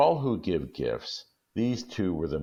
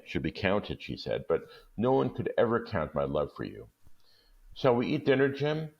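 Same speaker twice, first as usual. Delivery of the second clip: Della insisting; 2 semitones higher than usual. Acted. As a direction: say it fast to get it over with. Della coaxing Jim.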